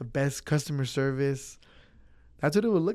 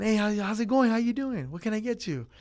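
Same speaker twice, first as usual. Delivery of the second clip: friendly server greeting; 6 semitones higher than usual. Retold or imitated. Imitating greeting a walk-in customer.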